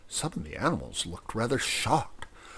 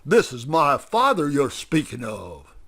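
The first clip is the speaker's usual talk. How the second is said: higher, louder sudden outburst; defending his father, shout; 4 semitones higher, 6 dB louder than usual. Acted. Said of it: "shouted John Quincy suddenly".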